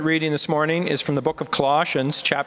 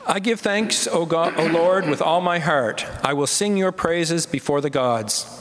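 raised, fervent liturgical reading; responsive psalm reading. Acted. Leader opening the responsive psalm for the standing congregation, raised. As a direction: lead the psalm so all can join.

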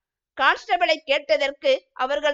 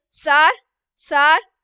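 a louder, half-sobbing plea of sir sir; 6 dB louder, much slower than usual. A narrator's reading. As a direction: call the guard with a catch of tears, rising. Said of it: "தேம்பும் குரலில்".

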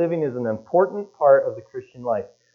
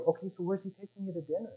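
quiet retold question; 6 semitones higher, 15 dB quieter, faster than usual.

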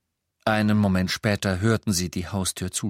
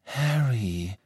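consoling; 3 semitones higher than usual. A narrator's reading. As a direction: comfort him gently. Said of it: "sagte Hermine und streckte tröstend die Hand aus". (tröstend und sanft)

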